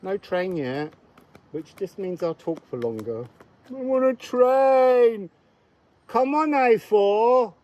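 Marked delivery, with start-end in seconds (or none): 3.7-5.3 loud, high Welsh sing-song call; Welsh accent. Pretend. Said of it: "I'm not very good at Welsh accent". 6.1-7.5 high, loud Welsh cheer; Welsh accent. Pretend. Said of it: "I'm not very good at Welsh accent".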